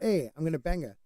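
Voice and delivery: lightly attempted South African accent. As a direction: try a half-hearted South African voice. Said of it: "That was my South African voice".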